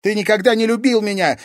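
high, loud wounded cry. Acted. Daughter crying out while bound in roots. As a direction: shout it while struggling. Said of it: "выкрикнула Дельфина".

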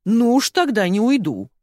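loud, high and defiant; bristling defiance. A narrator's reading. Ирка bristles back at Зайка, loud and defiant. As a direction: dig in your heels, bristling. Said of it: "мигом ощетинилась Ирка".

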